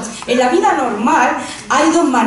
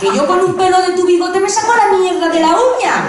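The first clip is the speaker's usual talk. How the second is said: laughing comeback; 6 semitones higher than usual. Retold or imitated.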